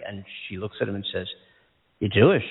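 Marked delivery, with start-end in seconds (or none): 2.0-2.4 imitated old-country Yiddish accent; lightly voiced Yiddish-accented question. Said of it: "In, in a Yiddish accent".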